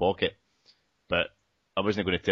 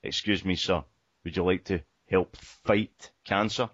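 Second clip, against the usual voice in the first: put-on quoting charity girl; slower than usual. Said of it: "and she said".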